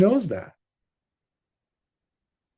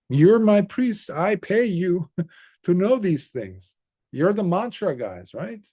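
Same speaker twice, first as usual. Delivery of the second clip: high, pushy scolding with a laugh; annoyed king; 5 semitones higher than usual. Acted. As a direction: needle the priests about their job.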